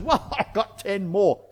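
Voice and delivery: slow, chuckling delivery; acted laugh as you proudly report in; pleased chuckle. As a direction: chuckle through a retold boast. Proud servant reporting his gains, retold.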